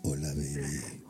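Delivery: very low, soft and slow murmur; deep, drawn-out lover's purr; sweet talk in the ear. Shown as a demonstration. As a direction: murmur it seductively, close to the ear. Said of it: "te voy a hablar al oído".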